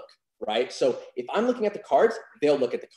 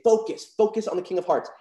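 confident; 4 semitones higher than usual. Shown as a demonstration. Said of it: "that's where the vocal intonation comes in".

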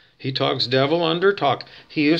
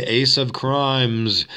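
devil undertalk; 2 semitones lower, much slower than usual. Shown as a demonstration. Lightly voiced devil muttering under the preacher. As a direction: drag it out under the sermon. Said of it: "Then somebody will say".

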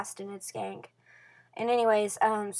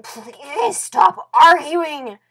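slow, loud, higher pleading cry; pleading shout; 6 semitones higher, 15 dB louder, much slower than usual. Retold or imitated. Girl retelling her Facebook plea to arguing friends, mock shouting. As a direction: shout it out to make them stop.

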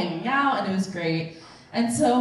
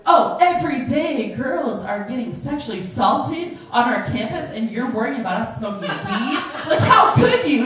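mock outraged lecture, getting in her face; indignant confrontation; 5 dB louder than usual. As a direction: confront them with playful outrage. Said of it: "He's, like, getting in her face".

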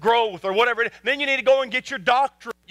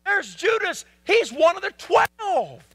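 a hint of kids calling out, pitched higher; higher, drawn out at the end, lightly childlike; lightly voiced excited children; 6 semitones higher, slower than usual. Little kids telling Mom about Judas, lightly voiced excitement. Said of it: "little boys, little girls says".

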